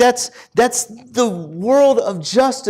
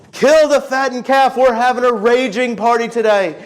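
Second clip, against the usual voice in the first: higher-pitched celebratory call, moderately raised; retold yell; 3 semitones higher than usual. Father yelling out to his servants, joyful retold call. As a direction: call out a mild, excited order. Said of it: "he yells out over his servants".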